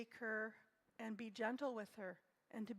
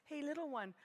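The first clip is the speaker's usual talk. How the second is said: gentle; 3 semitones higher than usual. Shown as a demonstration. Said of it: "I don't talk to her in a stern, mean voice".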